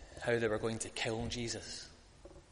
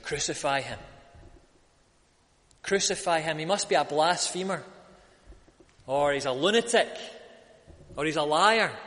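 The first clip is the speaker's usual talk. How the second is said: crowd shout; 2 semitones higher, 4 dB louder than usual. Retold or imitated. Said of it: "and shout".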